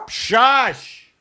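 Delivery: sharp high shush at the dog. Real, not acted. Host hushing his barking dog, sharp shush. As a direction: hush the dog fast.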